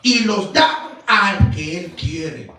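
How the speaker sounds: emphatic, declamatory Bible reading; scripture reading. Acted. Preacher reading the king's judgment to his congregation, solemn proclamation. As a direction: proclaim the verses in weighty, measured phrases.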